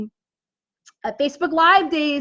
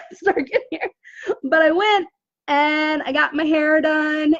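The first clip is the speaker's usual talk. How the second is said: teary laugh; 3 semitones higher than usual. Real, not acted. Tearful while laughing about hair.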